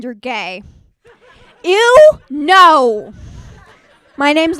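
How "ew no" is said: mock disgust.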